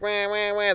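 high, held imitation wail; mock baby crying. Kid crying to get something, mock wailing. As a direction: lightly imitate a bawling kid. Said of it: "a kid will be crying like".

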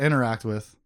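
"interact" stressed on the wrong syllable; misplaced stress on "interact"; odd emphasis. Real, not acted. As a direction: hit the first syllable of "interact". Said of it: "I said that really weird".

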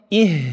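"Ih" with the h made low in the throat; h from deep throat. Shown as a demonstration. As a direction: let the h of "Ih" vibrate in the throat. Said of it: "vanuit het laagste gedeelte".

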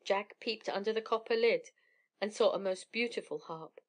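usual speaking voice

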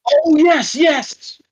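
suddenly delighted, yelp it; excited yes. Real, not acted. Host recalling the show, excited yelps. Host remembering tag team night.

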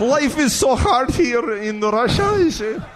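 high, slow mock Russian accent, giggling; hammed-up Russian footballer longing for pies; slow broken-English Russian voice; Arshavin impression. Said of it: "I could do Arshavin".

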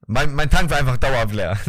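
laughing loudly. Real, not acted. Laughing at his own car story.

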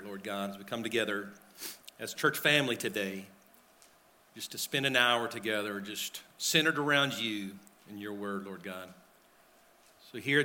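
soft, earnest prayer at the pulpit. Acted. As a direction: pray quietly and sincerely into the mic. Pastor leads congregation in prayer.

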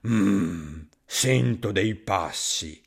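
low, slow monster voice; hungry monster. Acted. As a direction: rumble it like a big hungry beast. Gruffalo hears steps.

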